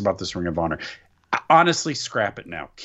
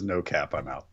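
lower, softer mock JR; mock JR slang; 9 semitones lower, 7 dB quieter than usual. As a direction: mumble the slang like JR. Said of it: "if he says".

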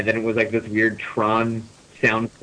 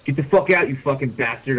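mild mock yell; 2 semitones higher than usual. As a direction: pretend to yell while reading. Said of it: "I yelled".

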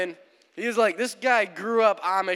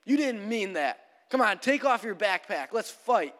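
mock angry challenge, raised pitch; angry hiker; 4 semitones higher than usual. Angry hiker rejecting Raymond's apology, mildly acted challenge. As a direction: lightly imitate someone goading a man to fight. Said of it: "the angry hiker's like".

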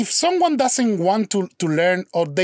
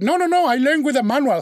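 higher, insistent denial; protesting innocence; 7 semitones higher, faster than usual. Retold or imitated. Speaker protesting to his girlfriend he isn't faking, high insistent denial. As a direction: plead that it's true, voice up high.

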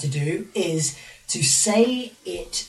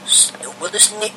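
reversed audio; 6 semitones higher than usual. Shown as a demonstration. Played reversed audio clip.

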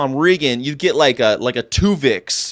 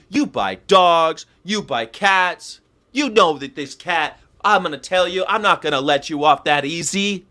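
Gary Yourofsky impression; 4 semitones higher than usual. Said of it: "that's my Gary Yourofsky impersonation".

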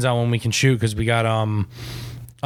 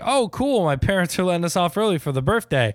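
put-on excited kid; 6 semitones higher than usual. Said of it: "and I was like".

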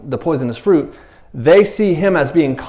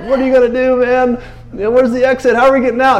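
high, urgent imitation of panic; mock-anxious disciples; 10 semitones higher than usual. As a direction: look for a way out, pitch raised. Disciples anxious to escape the tension.

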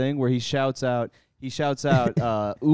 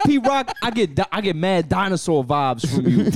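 mock radio DJ taking shots; raised, loud DJ call-out, half laughing; Funk Flex; 6 semitones higher, 5 dB louder than usual. Host imitates DJ dissing a producer, hammy call-out. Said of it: "He was like".

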